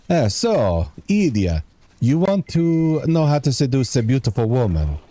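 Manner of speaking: imitating the game villain's vaguely European accent, lightly; mock vaguely European accent. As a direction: put on a loose European accent as a joke. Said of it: "I would try and sound like him".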